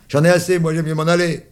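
high loud fed-up shout; angry outburst. Acted. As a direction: storm off yelling. Boy storms off.

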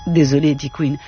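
measured, even literary reading voice; story narration. A narrator's reading. Author reading his novel to the audience, unhurried and even. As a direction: read the novel's opening to an audience. Reads novel aloud with music.

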